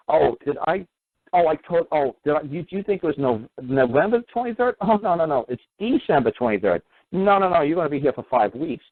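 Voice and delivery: playing the sly host who pretends he forgot; mock feigned innocence.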